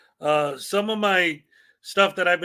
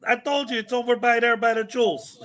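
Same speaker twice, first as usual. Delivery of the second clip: put-on Chicago accent; 4 semitones higher than usual. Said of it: "but with my Chicago accent".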